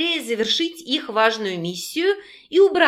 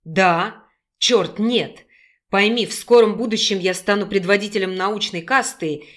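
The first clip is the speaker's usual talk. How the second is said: a hint of a lower male voice; lightly voiced young man; 3 semitones lower than usual. Male character voice.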